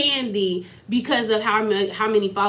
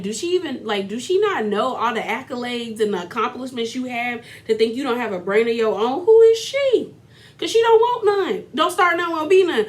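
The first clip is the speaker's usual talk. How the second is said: put-on Jamaican accent; 2 semitones higher than usual. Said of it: "I can't do a Jamaican accent".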